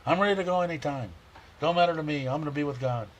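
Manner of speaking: lightly voiced mother, unbothered about dying; imitating his mom. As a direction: lightly voice mom's carefree insistence. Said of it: "I can hear my mom in my ear".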